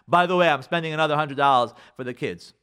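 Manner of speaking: loud, matter-of-fact declaration; controlling announcement. Acted. Wife telling her husband about spending, controlling. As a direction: announce it with no room for discussion. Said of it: "it is controlling".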